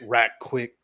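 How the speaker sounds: Southern drawl leaned into on right quick; mock Texan drawl echoing his own phrase; exaggerated Southern accent. Shown as a demonstration. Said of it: "really leaning into this Southern accent tonight".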